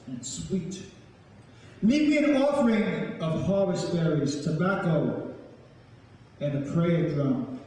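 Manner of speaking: slow, measured poetry performance with long pauses; a storyteller's incantation, each line given weight; spoken-word poem. Acted. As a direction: recite it like an elder telling the old stories to a crowd.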